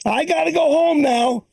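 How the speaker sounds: lightly voiced old woman wanting to go home; a hint of a confused old lady; confused mother-in-law. Comic imitating his mother-in-law at four each day, lightly voiced.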